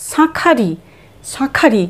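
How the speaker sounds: শাঁখারি, নাসিক্য শাঁ; nasal sha. Shown as a demonstration. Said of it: "উচ্চারণটা হবে সাঁ".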